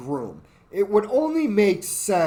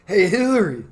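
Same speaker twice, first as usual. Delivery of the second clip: a clumsy impression of Clinton teasing his wife; half-hearted Clinton impression; mock Bill Clinton voice; 3 semitones higher, 3 dB louder than usual. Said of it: "Why does he sound retarded?".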